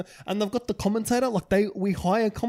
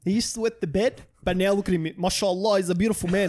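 cringy speech. Retold or imitated. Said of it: "my brother to tell me".

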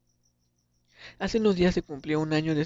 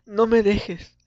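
loud, raised pleading shout; desperate cry out; 4 semitones higher, 10 dB louder, much slower than usual. Acted. Sibling calling to an unresponsive brother, desperate shout. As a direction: cry out, begging them to stay. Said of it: "Le gritaba".

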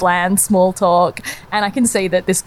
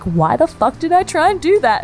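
put-on embarrassed girl; 10 semitones higher than usual. Voicing the girl's regret.

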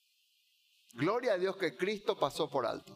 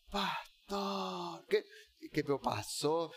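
worried congregant; 3 semitones lower, 3 dB quieter, much slower than usual. Retold or imitated. Congregant voiced asking the sick pastor.

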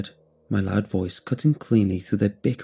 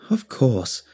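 cried; 3 semitones higher than usual. Acted. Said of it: "cried Doctor Whittle".

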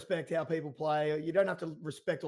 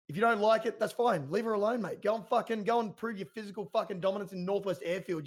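raised, heated telling-off; fired-up anger; 4 semitones higher than usual. Real, not acted. Cohost angrily telling bullies to leave Jill alone, heated. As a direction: tell the bullies off, voice climbing. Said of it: "I fire up over this one".

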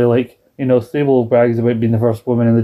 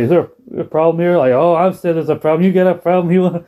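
mock Eddie challenging; 5 semitones higher than usual. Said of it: "he's still like".

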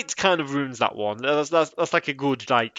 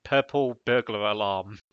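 put-on Scottish accent try; slower than usual. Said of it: "his accent just won't let me".

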